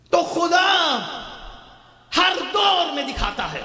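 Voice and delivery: high, ringing sermon cadence, falling at phrase ends; fervent high-pitched oratory; impassioned preaching. Real, not acted. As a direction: cry out each phrase to the congregation. Preaches at full force.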